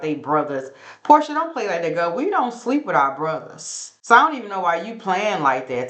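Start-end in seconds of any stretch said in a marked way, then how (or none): 1.0-3.9 mock scolding. Cast member scolding, retold.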